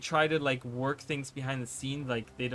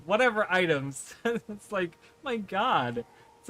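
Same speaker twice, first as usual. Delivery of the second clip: higher-pitched, half-laughing exasperation; flustered complaint; 4 semitones higher, 3 dB louder than usual. Real, not acted. Second-language reader excusing a stumble, flustered complaint. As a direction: protest with a laugh, still worked up. Still flustered after failing the word.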